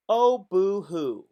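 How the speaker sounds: high, slow mocking boo-hoo; a mocking sob-story whine; mock whining. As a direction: sneer it like fake crying.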